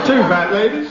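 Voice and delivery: bingo caller. Pretend. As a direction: call it like a bingo hall. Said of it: "it goes like this".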